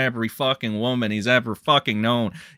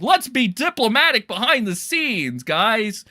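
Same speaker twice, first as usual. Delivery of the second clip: sarcastic mock; 7 semitones higher than usual. E-celebs mocked for backroom deals, sarcastic. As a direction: sneer at fake diplomacy. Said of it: "where it's like".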